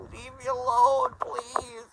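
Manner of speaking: crying plea. Real, not acted. Crying begging.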